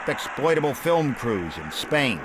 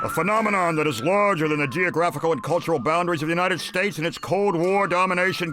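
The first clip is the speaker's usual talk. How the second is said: higher, quick quoted-academic voice; Marcia Landy; 4 semitones higher than usual. Acted. Narrator quoting a film book on spaghetti Westerns, mock academic voice. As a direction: read it as a quoted academic, pitched up and hurried. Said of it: "a woman named Marcia Landy".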